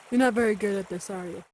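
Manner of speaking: soft, fast deadpan jab; deadpan bystander. Acted. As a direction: tease him quietly. Bystander mocks villain.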